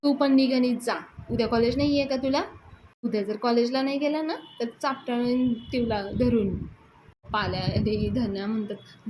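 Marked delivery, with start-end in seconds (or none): 0.0-6.6 mock yell at the lazy student; retold yelling. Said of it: "यशा त्याच्यावर देखील ओरडतो".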